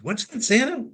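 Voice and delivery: put-on high eager child's question; little boy asking. Boy asks Santa what he will do, high eager child voice. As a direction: ask like an excited small boy.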